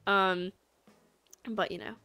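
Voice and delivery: put-on chatting in an amateur British accent. Streamer trying British mode for chat, amateur British accent. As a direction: attempt a British accent, conversationally. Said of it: "I can't speak in a British accent".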